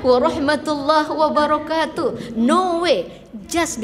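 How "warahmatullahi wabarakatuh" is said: mock speechifying. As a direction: drag it out like a pompous speech. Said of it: "jangan pidato".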